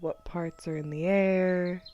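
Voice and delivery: measured body-scan guidance, long pauses; guided meditation. Acted. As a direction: count them through tensing and releasing.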